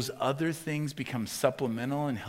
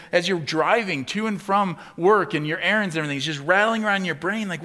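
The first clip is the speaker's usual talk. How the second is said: loud, high, driving preacher's build; preaching at full force; 9 semitones higher, 11 dB louder than usual. Acted. Pastor pressing the congregation, loud and high. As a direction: preach it hard, rising in urgency.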